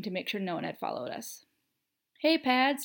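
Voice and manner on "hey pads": high, cheery called greeting; yelling. A narrator's reading. James greeting Sirius at the door, yelling happily. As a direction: call out a hearty hello. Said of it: "James yelled".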